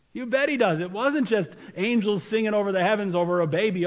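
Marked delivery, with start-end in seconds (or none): 0.1-0.8 emphatic answer. Shown as a demonstration.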